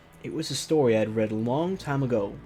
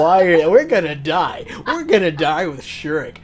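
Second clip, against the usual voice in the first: mock panic; 4 semitones higher, 10 dB louder than usual. Joking panic in dark basement.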